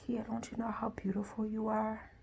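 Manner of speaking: softly reassure, as a mother would; tender reassurance. Retold or imitated. Mother to her crying daughter who feels ugly, tender reassurance.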